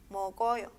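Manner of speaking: "Mokoyo" in one go as mo-ko-yo; linked directly. Shown as a demonstration. Teacher reading directamente, "Mokoyo" as one joined word. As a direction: read "Mokoyo" straight through, k joined to the vowel.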